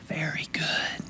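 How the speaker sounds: soft near-whisper; hushed, intimate pronouncement; tender hush. Acted. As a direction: whisper it as God's quiet approval. Voices God's verdict on you.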